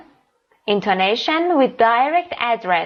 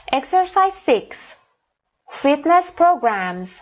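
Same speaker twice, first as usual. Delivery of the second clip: slow announcing read; 5 semitones higher, much slower than usual. Shown as a demonstration. Teacher announces next exercise.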